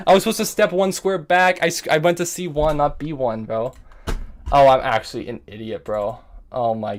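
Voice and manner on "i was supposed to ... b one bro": distressed regret. Real, not acted. Chess player explaining the wrong square, distressed regret. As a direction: lament your own misstep.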